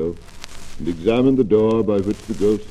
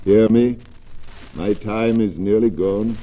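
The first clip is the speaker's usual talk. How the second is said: unearthly voice. Acted. Ghost commands Scrooge.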